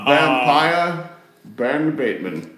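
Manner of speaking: spooky voice. Acted. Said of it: "I was in a spooky voice".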